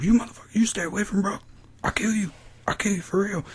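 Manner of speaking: high, squeaky mock menace; mock threat. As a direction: threaten him in a hammed-up falsetto.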